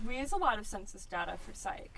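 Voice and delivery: talking through a mouthful; chewing while talking. Real, not acted. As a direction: speak while chewing salad. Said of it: "sound of munching".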